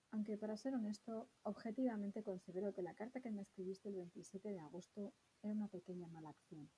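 lee la carta como si la escribiera él; reading a love letter. Acted. Reads love letter aloud. (la profesora lee la carta de amor de Ferrater a Elena, con sinceridad)

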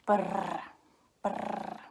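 rolled brrr like a drill; toy motor noise. A narrator's reading. Baby brother playing with drill and chopper, motor noise. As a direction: imitate a little toy drill buzzing.

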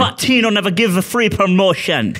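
playful mock Jamaican accent; half-accidental Jamaican accent; Jamaican-sounding accent. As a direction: put on a loose Jamaican lilt. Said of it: "Are you Jamaican?".

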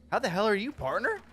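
high, loud, overjoyed hello; excited greeting. Pretend. Player greeting his robot pal, high and excited. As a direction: greet him like a long-lost buddy.

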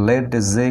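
লেড জে with d and j both sounded; wrong pronunciation. Shown as a demonstration. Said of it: "কিন্তু না".

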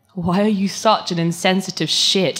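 angry outburst, slowing at the end. Acted. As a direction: snap at him in anger. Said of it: "now Jane was getting angry".

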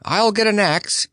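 a hint of a hasty scarecrow; called over shoulder. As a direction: call back while running. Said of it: "he called over his shoulder".

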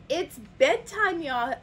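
slow, stretched words through a yawn; yawning sloth. A narrator's reading. Sloth arrives at bedtime, slow and yawning. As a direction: drag it out sleepily. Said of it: "yawned Sloth".

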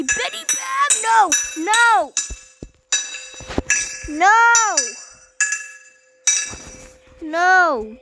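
scream. Real, not acted. Screaming at jump scare.

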